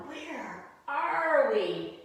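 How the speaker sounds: high, loud and very slow, a curious little cat; cat's voice. Acted. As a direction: stretch the question out like a puzzled cat. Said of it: "And cat says to cow".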